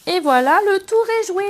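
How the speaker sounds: high, loud ta-da flourish; triumphant ta-da. Real, not acted. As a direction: announce the finished project with a flourish. Finishes the project with a flourish. (voilà triomphant, aigu et fort)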